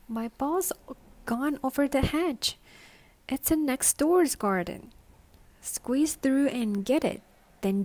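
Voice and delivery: put-on a little girl calling to her mother about her ball. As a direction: call up like a small girl in the garden. Little girl's voice from above.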